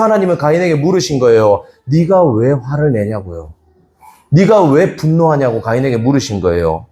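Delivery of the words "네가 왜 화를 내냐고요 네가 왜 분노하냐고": slow gentle question. Retold or imitated. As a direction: ask patiently, not scolding. God's gentle question retold. (느리고 부드러운 물음)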